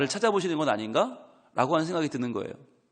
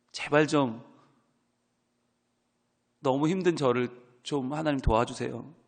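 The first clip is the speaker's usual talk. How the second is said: earnest prayer; 2 semitones lower than usual. Acted. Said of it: "간절한 기도를 하는 거죠".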